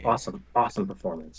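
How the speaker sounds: whisper. Real, not acted. Whispered aside at show.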